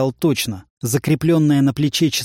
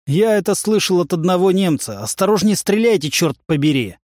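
high, raised radio call; 5 semitones higher than usual. Acted. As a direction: shout over the gunfire. Shouts over gunfire on radio.

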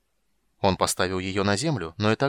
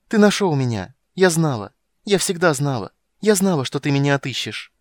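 put-on high, loud child voice bursting with joy; a girl who always knew he'd come; overjoyed little girl; 3 semitones higher, 7 dB louder than usual. Girl to the witcher who found her, high joyful child voice.

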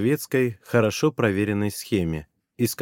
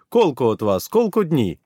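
louder, rising friendly question; Bulgarian woman; 3 semitones higher, 4 dB louder than usual. Acted. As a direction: ask it briskly in Bulgarian. Administrator asks how many.

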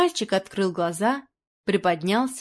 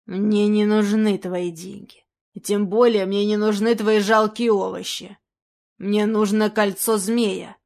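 menacing villain; 3 dB louder than usual. Acted. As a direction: lean on every word like a robber. Villain threatens boy.

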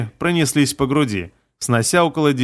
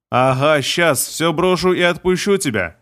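growled through teeth; 2 semitones higher than usual. Acted. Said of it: "прорычал я сквозь зубы".

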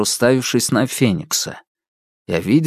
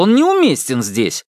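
stubborn insisting; 5 semitones higher than usual. Acted. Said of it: "продолжил гнуть своё Феникс".

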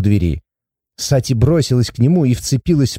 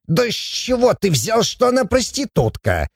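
high-pitched dwarf disbelief; put-on flustered surprise; taken aback; 9 semitones higher, 3 dB quieter than usual. A narrator's reading. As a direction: protest in startled, squeaky astonishment. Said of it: "опешил Абаддон".

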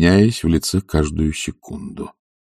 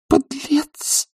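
put-on high, bitter young lady's cry; tearful outburst; 3 dB quieter than usual. A narrator's reading. The young lady calls Sharikov a scoundrel in high tearful voice. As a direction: spit out the insult through tears. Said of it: "выговорила барышня".

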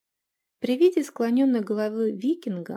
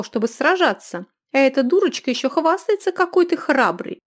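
loud, higher furious scolding; berating innkeeper; 4 semitones higher, 7 dB louder than usual. A narrator's reading. Innkeeper shaming the cowardly youth. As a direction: tear into him.

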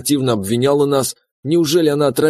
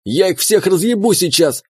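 yelling demand; 6 semitones higher than usual. A narrator's reading. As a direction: howl to be given control. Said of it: "завопил в моей голове имба". (громкий вопль с требованием)

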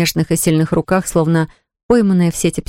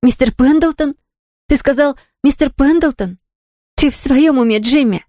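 higher, outraged disbelief; indignant outburst; 7 semitones higher than usual. A narrator's reading. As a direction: she can't believe he'd suggest it. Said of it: "возмущённо вскричала она".

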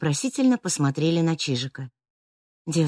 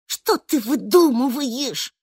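hissed; 8 semitones higher, 3 dB louder, slower than usual. A narrator's reading. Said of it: "зашипела на Нерома".

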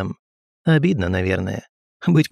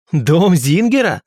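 loud, slow barked question; 6 semitones higher, 5 dB louder, slower than usual. A narrator's reading. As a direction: bark it out sharply. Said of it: "рявкнул я".

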